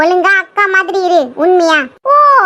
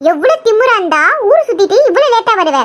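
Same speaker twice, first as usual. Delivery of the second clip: raised-pitch sisterly telling-off; indignant scolding; 4 semitones higher than usual. Acted. Sister scolds sister for coming home late, indignant.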